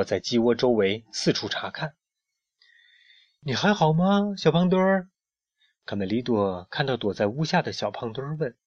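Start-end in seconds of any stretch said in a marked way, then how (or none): 3.4-5.1 high, drawn-up caring voice; concerned question. A narrator's reading. Friend asks the hiding hen, concerned. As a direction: check gently on a friend, pitched up.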